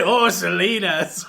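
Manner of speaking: slow, drawn-out mock celebrity impression; lightly put-on movie actor's voice, stretched out; Edward James Olmos. Host imitating a muffled movie villain, slow put-on voice. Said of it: "he would sound like Edward James Olmos".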